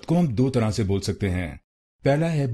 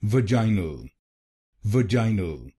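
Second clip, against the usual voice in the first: "vaginal" with "jai" pushed strongest; stress on second syllable; much slower than usual. Shown as a demonstration. Teacher showing where stress goes in British "vaginal". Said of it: "दूसरे शब्दांश पर जोर डालना है".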